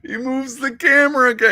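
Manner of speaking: high, squeaky amusement; real laughter lifting the voice; cracking up. Real, not acted. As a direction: talk through helpless laughter, pitch way up. Cracking up at the clip.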